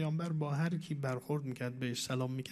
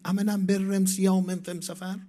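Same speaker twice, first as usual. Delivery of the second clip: Arabic in a rustic villager's dialect, higher, louder and slow; 4 semitones higher, 6 dB louder, slower than usual. Retold or imitated. A villager asking the Prophet about fasting, in rustic Arabic dialect. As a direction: ask it slowly like a village man in his own rustic Arabic dialect. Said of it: "با لهجهٔ روستایی خودش گفت".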